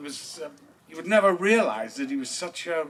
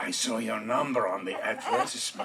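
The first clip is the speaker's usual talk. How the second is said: soft coy caller voice; 6 semitones lower, 7 dB quieter, faster than usual. Retold or imitated. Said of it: "She goes".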